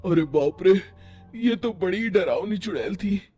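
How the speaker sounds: low awed fear; hushed and scared; frightened hushed voice. Acted. Couple watching the witch. (डरी हुई धीमी आवाज़)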